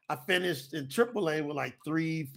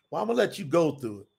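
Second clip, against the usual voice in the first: measured, weighty quoted pronouncement; solemn divine pronouncement; 3 semitones lower than usual. Retold or imitated. Voices God speaking to him.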